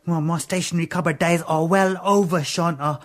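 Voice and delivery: chuckling through the words; laughing. Acted. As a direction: laugh as you say it. Laughing reunion with Shanta.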